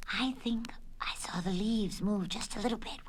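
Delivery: hushed, breath-only whisper. Acted. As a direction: whisper it as a secret sighting. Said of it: "whispered Dolly".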